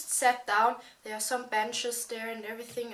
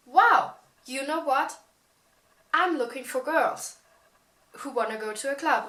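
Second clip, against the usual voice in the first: imitating the guy; 3 semitones higher, 6 dB louder than usual. Voices the stranger's pitch.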